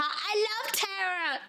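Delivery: high, drawn-out gush of love. Acted. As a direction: gush slowly over a favorite character. Gushing over a game character.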